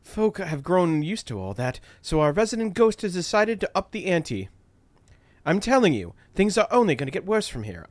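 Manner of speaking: a Caribbean attempt sliding into British; lightly voiced Idra, accent wandering; accent slipping British. Idra warns the crew things get worse, slipping accent. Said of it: "I'm turning into a British girl".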